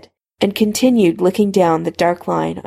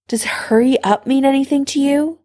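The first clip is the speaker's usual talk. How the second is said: higher, rising exasperated question; impatient; 6 semitones higher than usual. A narrator's reading. Severus hurries Harry along, impatient. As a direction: needle him with mild impatience. Impatient character snipes in story.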